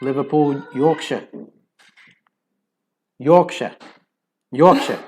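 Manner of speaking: trying out a northern English pronunciation; northern English place names, one by one; northern English accent. Shown as a demonstration. Searching for how northerners say it, northern English accent. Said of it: "how do they say it".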